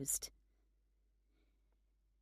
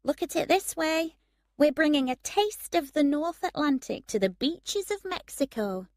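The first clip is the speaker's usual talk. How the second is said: tired joke; 9 semitones higher than usual. Acted. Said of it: "She sounded very tired as she made the joke".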